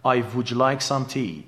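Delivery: "I would like some tea" said slowly with a j wrongly added after would, "wouldj like"; wrong j sound. Shown as a demonstration. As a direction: deliberately overdo the j as a mistake. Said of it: "که کاملاً غلطه". (تلفظ غلط با صدای ج اضافه بعد از would)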